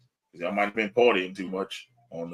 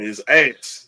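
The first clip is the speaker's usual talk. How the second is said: emphatic; 6 dB louder than usual. Real, not acted. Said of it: "I'ma say it better for him".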